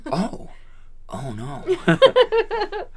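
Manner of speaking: squeaky high mock oh no; mock Cage. A first go at the line as Nicolas Cage. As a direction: crack up into a high oh no. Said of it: "Cage take of the line".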